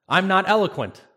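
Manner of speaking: high, loud pleading protest; whiny excuse. Retold or imitated. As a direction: throw up the excuse in a high whine. Moses making excuses to God.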